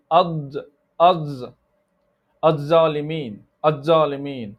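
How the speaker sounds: "ad zalimin" with a hard dz for th; tongue inside. Shown as a demonstration. Teacher imitates students' mistake, tongue kept inside. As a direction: keep the tongue in, making "ad" a d-z. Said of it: "put the tongue inside it".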